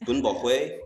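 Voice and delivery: "Bumble way" slowed, with the accent put on; accented demonstration. Shown as a demonstration. Guest corrects his co-host's missing accent, slow accented demo. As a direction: say "Bumble way" slowly, adding the accent. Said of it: "You didn't add the, the accent".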